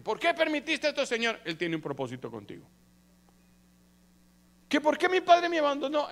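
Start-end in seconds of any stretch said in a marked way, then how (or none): 0.0-1.4 loud, high-pitched questioning of God; dramatized anguished complaint; acted protest. 4.7-6.1 loud, high-pitched protesting question; dramatized cry of grievance; acted lament. Acted complaint about being abandoned.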